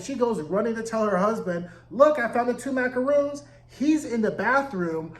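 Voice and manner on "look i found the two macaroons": retold excited announcement, raised pitch; mildly excited. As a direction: imitate an excited wife, pitched higher. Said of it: "She's so excited".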